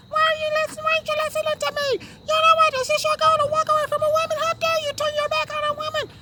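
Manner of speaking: very high screeching protester impression; mock screeching women. Man imitating women protesters yelling at politicians, mock screeching. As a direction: screech it in falsetto, hammed-up outrage. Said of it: "screeching voices they can find".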